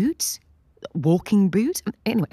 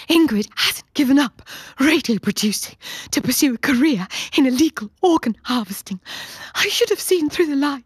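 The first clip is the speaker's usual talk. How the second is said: panting; 8 semitones higher, 4 dB louder than usual. Acted. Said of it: "Stephanie pants".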